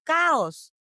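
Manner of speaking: "chaos" said Spanish-style as KAH-os; "chaos" sounding close to "cows"; mispronounced chaos. Retold or imitated. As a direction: say "chaos" with an open "ah" first vowel. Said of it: "it's not chaos".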